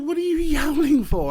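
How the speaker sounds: high, loud shout out of a window; retold yelling. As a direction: re-enact an exasperated yell at a cat. Retells shouting at yowling cat.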